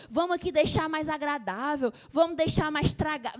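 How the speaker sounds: mocking lukewarm believer. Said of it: "Não queira dizer".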